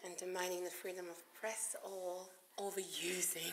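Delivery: whispered aside, voiceless. Real, not acted. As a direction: murmur the question under breath.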